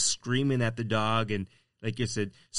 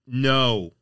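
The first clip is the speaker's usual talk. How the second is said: firm, louder no; raised voice; 7 dB louder than usual. Shown as a demonstration. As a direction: raise your voice without screaming. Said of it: "You can raise your voice and say".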